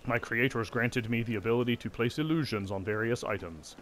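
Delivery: choppy robotic golem voice; stiff, machine-like recital; clockwork automaton. Acted. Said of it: "staccato automaton voice".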